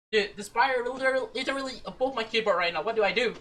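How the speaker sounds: fast, frightened babble; panicked rush. Real, not acted. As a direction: rattle it off in panic. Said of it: "that was so scary".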